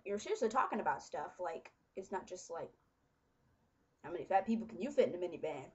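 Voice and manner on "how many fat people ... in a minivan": fast, mock stand-up joke delivery; bad joke setup. Vlogger fakes a lame comedian joke, quick and mocking. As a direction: rattle it off like a cheesy comic. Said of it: "See, that was horrible".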